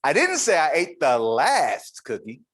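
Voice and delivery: a different word pressed; shifted stress. Shown as a demonstration. Speaker demonstrating eight meanings, shifted stress. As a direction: put weight on another word. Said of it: "said eight different things".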